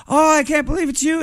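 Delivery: airy high falsetto imitation; mock high-voiced awe; Prince's high voice. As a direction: gush up high like a starstruck fan. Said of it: "his high voice".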